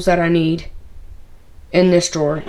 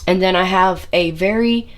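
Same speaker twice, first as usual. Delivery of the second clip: bent over. Real, not acted. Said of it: "if I sound funny, I am bent over".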